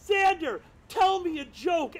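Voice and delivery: high, loud retold call; fan calling out. Fan calling to a comedian for a joke, high loud shout. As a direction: pester the comedian loudly from the crowd. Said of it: "You yelled at a fan of yours".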